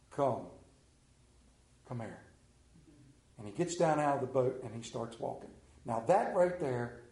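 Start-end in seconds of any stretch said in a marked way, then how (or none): 0.1-2.2 quiet Jesus. Acted. Jesus answers Peter.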